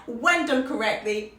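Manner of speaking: ordinary talk, nothing marked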